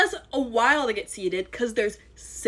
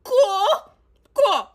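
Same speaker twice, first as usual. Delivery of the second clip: high, laughing, fake-casual cool; 10 semitones higher, 4 dB louder, much slower than usual. Reacting to the date's plan, high forced laughing okay. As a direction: pretend it's fine through a laugh. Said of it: "So I'm like".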